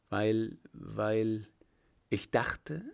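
halting, broken words with long pauses; embarrassed stammer. Acted. The cornered director to the captain, stammering with embarrassment. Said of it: "stammelte der Gefragte in höchster Verlegenheit".

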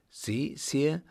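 startled question. A narrator's reading. Woman hears the Emperor was attacked, mildly startled. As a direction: ask with a touch of fright. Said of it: "fragte die Frau erschrocken".

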